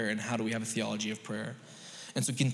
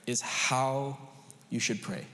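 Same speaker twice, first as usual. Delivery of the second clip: scripture reading; 2 semitones lower than usual. Acted. Reads the Lord's Prayer aloud.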